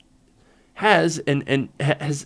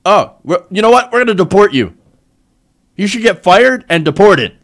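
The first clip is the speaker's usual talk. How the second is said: mock Trump; 4 semitones higher, 8 dB louder than usual. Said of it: "here's idiot Trump... He's like".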